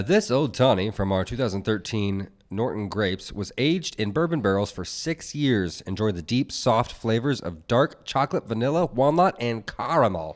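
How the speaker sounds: measured radio-style product read; smooth ad read, lingering on the flavors. Real, not acted. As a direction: read the tasting notes like a radio host. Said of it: "you have a radio voice".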